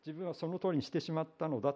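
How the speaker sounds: a hint of the shock that leads to tears; dismayed realization. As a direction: voice the sudden, horrified realization. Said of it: "思い起こして泣き崩れた".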